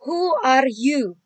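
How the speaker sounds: a teacher modelling a question for the class; slow model reading. Shown as a demonstration. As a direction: pronounce it word by word.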